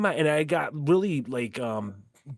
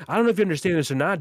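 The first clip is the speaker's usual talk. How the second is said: rapid retold jab; 3 semitones higher, much faster than usual. Retelling his jab to Otis, rushed and fast. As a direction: fire it off fast. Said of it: "but I said this yesterday to Otis".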